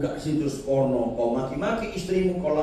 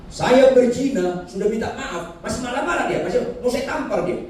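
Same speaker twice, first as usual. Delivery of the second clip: high, laughing mock confession; imitating a man chuckling about his adultery; 10 semitones higher than usual. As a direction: laugh through the admission, pitched up.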